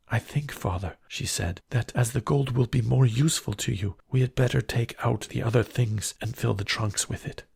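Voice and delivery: a sensible daughter advising; young Beauty. Acted.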